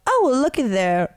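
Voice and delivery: bad British accent, called out. Imitating British man at cookie stand, bad British accent. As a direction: attempt a British man, badly. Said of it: "I can't do a British accent".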